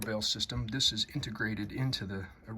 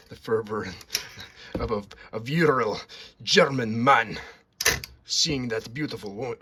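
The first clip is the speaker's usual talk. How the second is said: hammed-up mock Russian accent, louder; a playful fake Russian accent; 7 dB louder than usual. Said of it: "why am I speaking in a Russian accent?".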